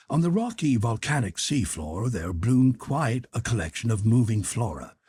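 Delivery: ordinary delivery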